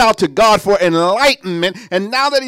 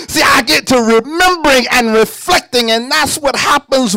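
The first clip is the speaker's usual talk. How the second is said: preaching shout; 5 semitones higher than usual. Real, not acted. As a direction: lift the congregation with it. Preacher building to a climax.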